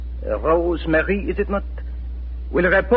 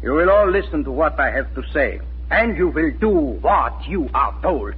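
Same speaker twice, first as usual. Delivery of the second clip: commanding. Acted. Officer lays down orders to family.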